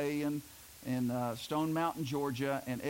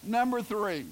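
laughing; 4 semitones higher, 4 dB louder than usual. Real, not acted. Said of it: "don't laugh so hard".

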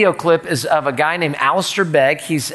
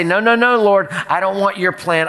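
high, insistent mock protest; defiant refusal; 5 semitones higher than usual. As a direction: push back hard, pitched up, as if refusing orders. Acting out a refusal to God.

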